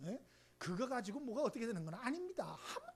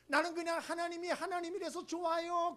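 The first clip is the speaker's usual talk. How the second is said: devout believer quote; 8 semitones higher, 6 dB louder than usual. Retold or imitated. Quoting an idealised believer.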